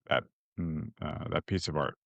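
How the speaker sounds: teary, choked-up voice; holding back tears, words fading quietly; after crying. Real, not acted. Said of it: "I'm getting teary".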